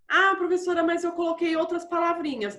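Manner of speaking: a hint of a pupil piping up to the teacher; pupil's objection. Pupil telling teacher about other words chosen, lightly mimicked.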